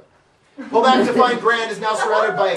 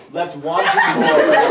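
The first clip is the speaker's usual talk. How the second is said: longing; 4 semitones lower, slower than usual. Shown as a demonstration. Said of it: "I wanna see that in your face".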